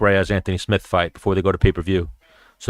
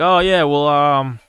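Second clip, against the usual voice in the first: higher-pitched, chatty mock sales pitch; upbeat self-quote, pitched up; breezy retold pitch; 5 semitones higher than usual. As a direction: replay your own friendly invitation. Retelling his casual podcast pitch.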